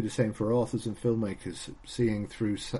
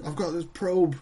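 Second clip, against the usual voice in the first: high, odd alien voice; 7 semitones higher than usual. Pretend. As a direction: play the dopey alien Kev.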